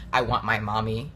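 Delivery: a half-laughing, lightly whiny "I want my mommy"; laughing mock whimper. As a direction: retell the childish plea through a laugh. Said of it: "At one point, I literally said".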